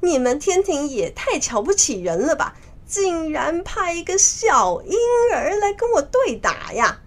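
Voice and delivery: high-pitched indignant outburst; angry. Acted. Monkey King insulted by a child opponent, high and angry. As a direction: rant at the insult, voice jumping high. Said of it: "孙悟空就更生气了".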